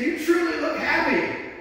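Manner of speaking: a hint of an eager lady; quoting the lady. Lady at the door telling the preacher, lightly voiced woman.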